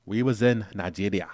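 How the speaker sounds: hammed-up attempt at a Nigerian accent; bad Nigerian accent. Traveler showing off to a teasing co-host, bad Nigerian accent. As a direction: put on an unconvincing Nigerian accent. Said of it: "You sound like his bad accent".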